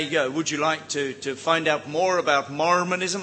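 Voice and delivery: a hint of a hammed-up American accent; mock American accent. Speaker imitating a Mormon missionary at the door, faint American accent. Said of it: "I can't do an American accent".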